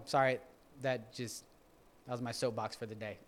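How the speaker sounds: normal talking voice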